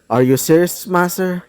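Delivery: casual and unbothered; nonchalant. Acted. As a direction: toss it off lightly. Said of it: "He would say that with a nonchalant tone".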